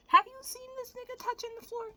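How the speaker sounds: squeaky, amazed repeat; incredulous. Real, not acted. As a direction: push the disbelief further. Incredulous repeat, even higher.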